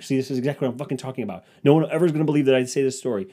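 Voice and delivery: fast, exasperated retold rant, pitch climbing; mock angry. Man ranting that nobody will believe his story, mock angry. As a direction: rattle off a worked-up complaint in comic frustration. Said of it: "I'm just, like, angry".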